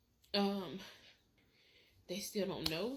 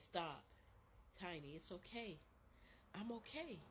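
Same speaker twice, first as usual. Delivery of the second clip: gentle brother; 9 dB quieter than usual. Retold or imitated. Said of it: "I hear my brother's voice".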